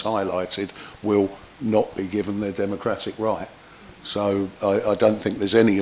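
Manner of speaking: hoarse, husky speaking voice. Real, not acted. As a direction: talk through a rough, husky throat. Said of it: "Excuse my husky voice".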